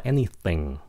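ANYTHING with TH as a light Vietnamese T. Shown as a demonstration. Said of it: "coi nó là cái âm T của tiếng Việt". ("anything" đọc TH gọn như âm T tiếng Việt)

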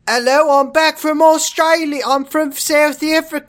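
silly new character. Acted. Improvised new character entrance.

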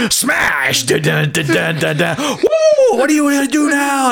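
shouted high whoo and taunt; Stone Cold entrance. Retold or imitated. Buddy prank-calling him with Stone Cold's entrance, shouting. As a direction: yell it like the wrestler storming in. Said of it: "he makes the music".

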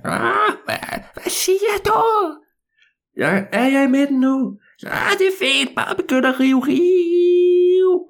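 put-on very high, thin old man calling from far off; distant old man. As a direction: shout back from across the maze. Old man answers from afar.

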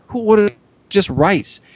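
a hint of the comic's slow deadpan; Mitch Hedberg voice. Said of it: "I like that they're doing the voice".

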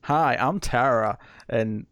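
slow, put-on American accent. Shown as a demonstration. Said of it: "I'll do an American accent".

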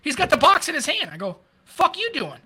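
half-shouted disbelief at a partner; retold disbelief. A cop catches his partner holding the donut box, mock yell.

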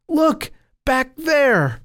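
very high, slow warning call; alarmed cry. A narrator's reading. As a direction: call out in alarm, drawing each word out. Frightened boys point out the monster.

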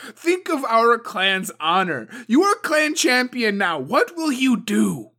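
loud, high, harsh tirade; furious demand. A narrator's reading. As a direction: lash him into action. Suko demands vengeance from champion.

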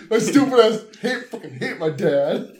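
dopey grumble through laughter, slowing down; mock a sulky, dim son; lightly voiced dumb complainer. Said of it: "like, a dumb voice".

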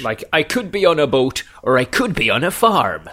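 rolling West Country English lilt; Southwestern English accent. Pretend. Friend showing the accent fits boat or farm, in Southwestern English. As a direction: talk like a Southwestern English farmer or sailor. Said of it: "Southwestern English".

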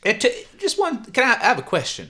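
curious cashier. Acted. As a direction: ask nosily.

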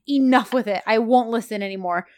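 mildly fed-up mock outburst; retold snapping. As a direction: put your foot down in mild mock anger. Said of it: "John done snapped".

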